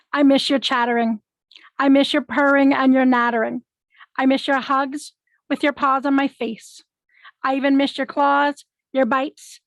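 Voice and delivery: measured verse with pauses between lines; poem reading. Acted. Reading an ode to a departed cat, measured poem reading. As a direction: read a tribute poem, line by line.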